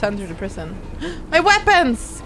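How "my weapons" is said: slow, high delighted gasp; excited gasp. Real, not acted. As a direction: gasp with joy at the gear. Delighted to get weapons back.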